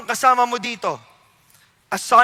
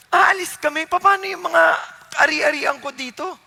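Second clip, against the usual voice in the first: fretful Lot; 4 semitones higher than usual. Acted. Lot imagined fretting over property.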